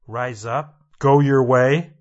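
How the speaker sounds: Jesus commanding. Acted. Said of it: "He heard Jesus say".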